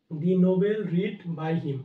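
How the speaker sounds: very slow, word by word; dictated at a crawl; slow dictation. Shown as a demonstration. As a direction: spell it out slowly for students to copy.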